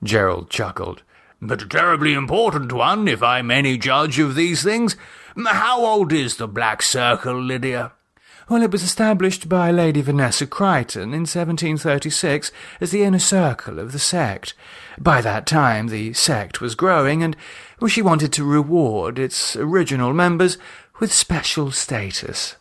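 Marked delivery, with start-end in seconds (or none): 1.4-7.9 lightly voiced hearty English gent, a bit higher; chummy old-boy tone; jovial Gerald. Gerald chatting up Lydia over drinks, jovial gent. 8.5-22.6 lightly voiced poised lady, higher; proud, knowing explanation; Lydia explaining. Lydia tells the guests the Circle's history, poised.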